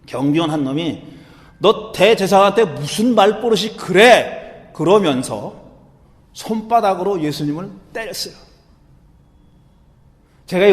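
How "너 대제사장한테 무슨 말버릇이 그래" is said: slow, mildly acted rebuke; lightly voiced indignant underling; scolding servant. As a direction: scold him for his insolence. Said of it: "대제사장 옆에 있던 심부름 하는 놈이".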